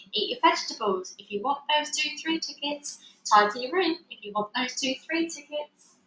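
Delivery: lightly mimicked parent nagging, sing-song; mock the parents' bargaining; a hint of nagging mum and dad. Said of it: "I can hear them now".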